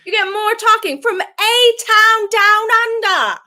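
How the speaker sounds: slow, loud, high hype announcer. Acted. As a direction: boom it out like a ring announcer. Mock announcer hype line.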